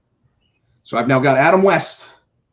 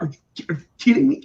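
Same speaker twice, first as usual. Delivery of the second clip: exasperated; 10 semitones higher, much faster than usual. Retold or imitated. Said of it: "I'm actually getting actively mad".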